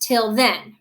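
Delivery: "Till then" with "then" emphasized; light "Till", weighted "then"; stress on THEN. Shown as a demonstration. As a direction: show the beat falling on "then". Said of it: "this syllable is not stressed".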